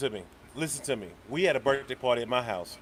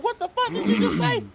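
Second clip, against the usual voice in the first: high, disbelieving cry of what; stunned, can't believe the ears; mock outrage at a kid's nonsense; incredulous; 5 dB louder than usual. Retelling disbelief at kid's claim.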